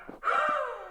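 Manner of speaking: high, hammed-up gasp; a gasp of pretend horror at the naked hiker; mock shocked gasp. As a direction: gasp as if scandalized. Reacting to the naked hiker story.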